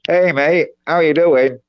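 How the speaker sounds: "Hey, mate" squeezed through a pinched nose, Aussie accent; held-nose Australian. Shown as a demonstration. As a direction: say the Aussie greeting while holding your nose. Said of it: "But then you hold your nose".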